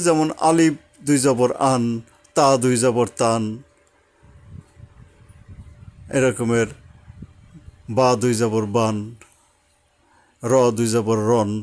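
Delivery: each syllable spelled, then the joined sound ringing out; spelling out Arabic sounds. Shown as a demonstration. Teacher drilling pupils on tanween, sounding each out. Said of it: "তাই উচ্চারণটা কীরকম হবে?".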